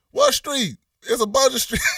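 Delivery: high-pitched, breaking into real laughter; baffled, cracking up at the question; amused disbelief. Real, not acted. Baffled by a viewer's vague question.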